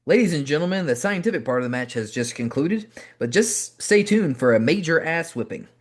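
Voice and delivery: mock ring announcer. Imagined announcer telling the crowd a beating is coming, mock ring-announcer voice. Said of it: "an announcement might as well have been saying".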